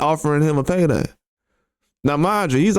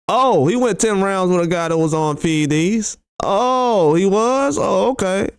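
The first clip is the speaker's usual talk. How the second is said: high, drawn-out "oh" of feigned realisation; sarcastically surprised; mock surprise; 5 semitones higher, slower than usual. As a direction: act like it's news to you, pitched up. Mock surprise at fighter's record.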